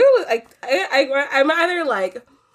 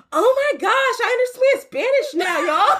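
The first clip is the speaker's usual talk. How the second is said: much higher, squealing TikToker voice; mock TikTok voice; 12 semitones higher than usual. Quoting a TikTok girl to her friend, squeaky and high. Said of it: "There was a TikTok that was like".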